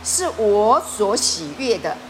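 a hint of divine tenderness; voice of God the Father. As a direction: speak as a gentle heavenly Father, unhurried. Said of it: "天父说".

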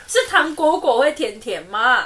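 doubled words, slow and cutesy; baby talk. Shown as a demonstration. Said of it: "哪有人会甜甜".

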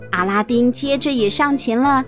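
ordinary delivery

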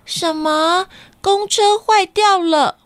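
high, startled disbelief; shocked. Acted. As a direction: gasp it out in shock. Cat shocked bus broken. (惊讶地大叫)

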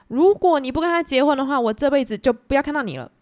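threat. Retold or imitated. Mother threatens her daughter.

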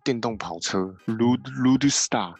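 put-on slow, drawn-out aristocratic accent; imitating a YouTuber's noble accent; 老高's aristocratic accent. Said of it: "我在学老高讲话".

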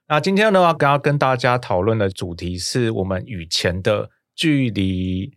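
sunny host voice. Acted. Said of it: "好阳光哦".

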